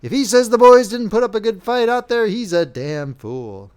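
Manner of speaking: rising to a loud angry outburst; firm, undaunted. A narrator's reading. Lieutenant defying the colonel over the general's insult, firm and loud. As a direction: stand firm and let the anger swell to a shout. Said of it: "spoke suddenly in firm and undaunted tones".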